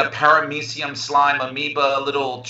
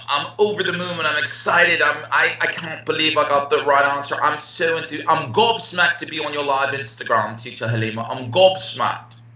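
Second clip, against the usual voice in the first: put-on British accent. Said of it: "I love the accent".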